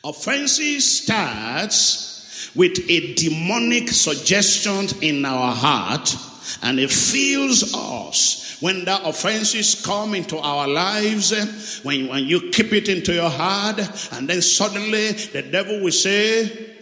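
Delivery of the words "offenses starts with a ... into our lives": drawn-out, weighty sermon delivery; slow emphatic preaching. Acted. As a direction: preach each word slowly.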